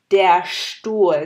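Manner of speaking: Stuhl with a heavy sht onset. Shown as a demonstration. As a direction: give Stuhl a weighted sht start. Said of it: "একটু ভারী". (Stuhl এর st ভারী করে, শ্ট)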